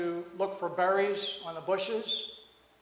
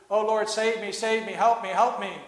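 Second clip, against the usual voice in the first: raised, loud pleading, a scared peasant calling out; frightened cry for help; 3 semitones higher, 6 dB louder than usual. Retold or imitated. A preacher voices the peasant's night prayer, loud and afraid. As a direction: cry out to God in terror. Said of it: "He started crying out to the Lord".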